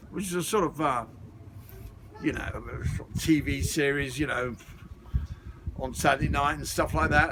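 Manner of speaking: hint of a smooth British film star answering an interviewer; Roger Moore impression. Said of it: "Now, Roger Moore, ... tell us about yourself".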